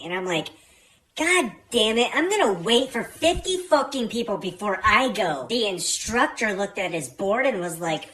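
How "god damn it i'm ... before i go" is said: louder, exasperated grumble; a touch of annoyed disbelief; mild retold exasperation. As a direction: punch the swearing in mock frustration. Retold frustration at long wait.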